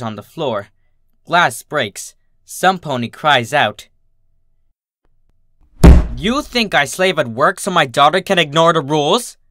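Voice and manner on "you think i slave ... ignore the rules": loud, furious scolding; roaring at dad. Acted. Mom roaring at dad over the daughter, loud furious yell. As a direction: bellow it at him, louder throughout. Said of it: "She roars".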